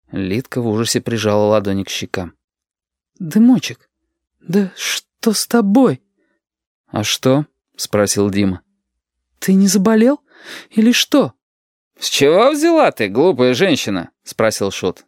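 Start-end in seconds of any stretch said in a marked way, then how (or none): 3.2-11.3 alarmed concern. Acted. Lidka worries over Dima's look, high and anxious. 12.0-14.1 scoffing. Acted. Shut scoffs.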